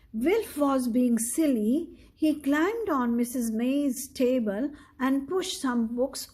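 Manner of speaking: steady read-aloud storytelling voice; story narration. A narrator's reading. Parent reading a picture book to a child, measured storyteller. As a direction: read the story clearly to a young listener.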